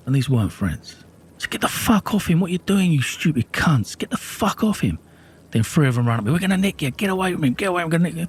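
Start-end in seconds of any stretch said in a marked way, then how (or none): 1.5-5.0 retold angry yell. Shouting at men attacking his brother. 6.3-8.3 retold police threat. Police threatening him as he runs.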